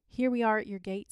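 abrupt, loud announcement. A narrator's reading. Man at the children's gate, abrupt. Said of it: "said the man abruptly".

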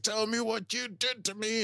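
a hint of a high strained threat; lightly voiced desperate Tyler; menacing demand. Tyler choking Laurel, acted quote.

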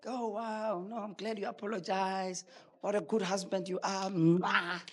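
imagined adoring wife. Acted. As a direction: gush sweetly as the wife he hoped for. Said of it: "you think you are going to".

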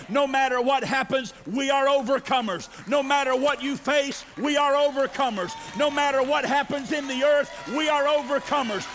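fervent call and response; building preaching refrain. Acted. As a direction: build each line to the hallelujah.

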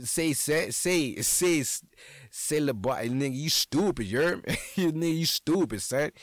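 imitating a loud New Orleans Yat fan; mock New Orleans Yat fan calling him stupid; New Orleans Yat accent. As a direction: hype New Orleans Yat street voice, teasing. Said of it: "that Yat accent".

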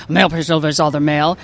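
lightly voiced mail carrier; cartoon character voice. Shown as a demonstration. Actress rattling off her characters, light mail carrier voice. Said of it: "thank you very much for doing the voices".

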